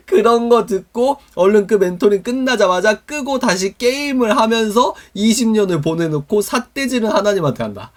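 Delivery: high, loud, through laughter; laughing incredulously. Real, not acted. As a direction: scold them playfully while cracking up. Laughing while mocking the inconsistent listener. (어이없어 웃으며 높고 크게)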